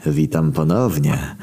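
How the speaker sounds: slow, drawn-out villain greeting; menacing villain. Acted. Villain greeting his trapped prey, unhurried menace. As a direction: greet them slowly, savouring it.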